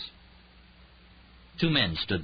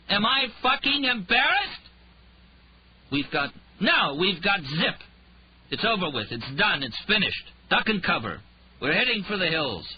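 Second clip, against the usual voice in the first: loud, much higher mocking outburst; drunken rant; 13 semitones higher, 4 dB louder than usual. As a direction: rant and taunt the room, drunk. Drunk Rhyme ranting at everyone.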